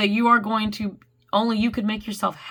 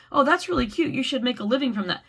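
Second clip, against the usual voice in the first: higher, delighted little gush; gushing compliment; 3 semitones higher than usual. Retold or imitated. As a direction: coo over something cute.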